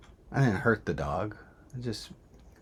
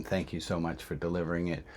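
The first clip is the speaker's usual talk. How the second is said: softer, held-back polite thanks; thanking the delivery woman, calmly; 2 semitones lower, 4 dB quieter, faster than usual. Retold or imitated. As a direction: keep it calm while furious inside. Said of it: "I say calmly to the woman".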